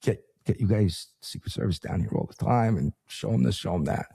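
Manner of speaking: imitating a bubbly receptionist. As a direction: gush like an eager friendly host. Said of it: "bubbly, friendly, cheerful, nice".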